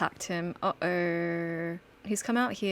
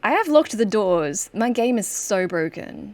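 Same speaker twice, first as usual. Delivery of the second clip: frustrated outburst; 8 dB louder than usual. Real, not acted. Player frustrated by buggy game.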